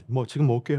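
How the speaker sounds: imitated meek, soft compliance; meek as lambs. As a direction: give in quietly, like a tamed lamb. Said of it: "아저씨들이 순한 양이".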